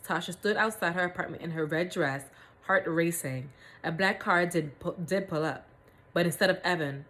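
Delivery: measured read-aloud storytelling; story narration. A narrator's reading. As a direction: read the story out with deliberate phrasing.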